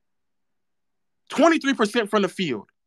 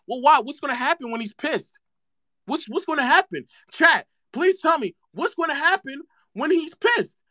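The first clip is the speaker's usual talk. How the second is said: mock hype; 6 semitones higher than usual. Teasing chat, building up.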